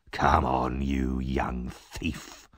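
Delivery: low, soft, slow threat; menacing Sikes. Acted. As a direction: growl it close to his ear. Sikes drags Oliver away.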